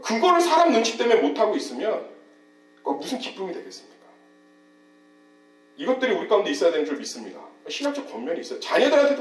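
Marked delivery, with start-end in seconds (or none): 2.8-4.0 voiceless, hushed question; rhetorical whisper. Real, not acted. Preacher whispering a question to the congregation. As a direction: drop to a whisper to make them think.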